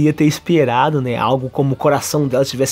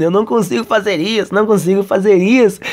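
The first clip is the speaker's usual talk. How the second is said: mildly desperate repeated protest; mock desperation; 3 semitones higher than usual. Kazuya still despairing to himself, mild mock desperation. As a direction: repeat it in lightly acted despair. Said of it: "continua ali todo desesperado".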